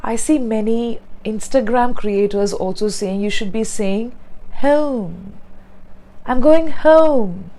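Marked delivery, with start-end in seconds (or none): 4.6-5.3 British-accented HOME with a gliding vowel; British HOME, vowel rounded off as a glide; British pronunciation. Shown as a demonstration. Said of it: "that is British pronunciation". 6.2-7.5 slow, higher British-accented demo; British accent, higher and stretched slow; British pronunciation. Shown as a demonstration. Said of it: "that is British pronunciation".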